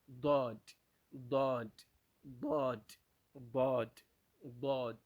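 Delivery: "ضاد" with heavy first sound and clear final D; teacher's separate repetitions of emphatic "ضاد"; Daad with final D. Shown as a demonstration. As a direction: drill "ضاد", sounding the last D. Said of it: "Don't forget the last letter".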